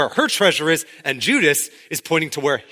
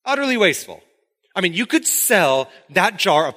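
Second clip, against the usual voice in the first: higher, sneering disapproval; disdainful Judas; 4 semitones higher than usual. Retold or imitated. Judas judging the perfume, mock sneer. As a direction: sniff at the waste. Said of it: "Judas just looks at this and says".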